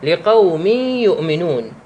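measured, slow recitation; slow Quran recitation. Shown as a demonstration. Teacher reciting an example of tanween, slow. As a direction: recite "لقوم يؤمنون" slowly as a tajweed example. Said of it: "أو مثل قوله تعالى".

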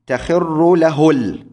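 slow, drawn out تخر له ال- beat by beat; slow scansion. Shown as a demonstration. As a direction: stretch تخر له ال- slowly to show the metre. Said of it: "هذه على وزن مفاعلة". (تقطيع بطيء لـ تخر له ال-)

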